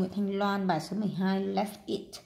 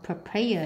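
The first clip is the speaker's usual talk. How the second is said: "papaya" stressed on PA in the middle, pa-PA-ya; stress on second syllable. Shown as a demonstration. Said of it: "nhấn âm hai".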